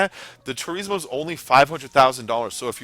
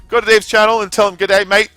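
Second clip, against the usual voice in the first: mock Aussie; 8 semitones higher, 9 dB louder than usual. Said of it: "I tell people all the time".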